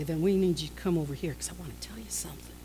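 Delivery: hurried, hushed confiding demo; gossipy whisper. Shown as a demonstration. Gossip beckoning a friend over with something juicy, hushed and quick. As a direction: drop right down as if sharing a juicy secret. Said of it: "It's called whisperings".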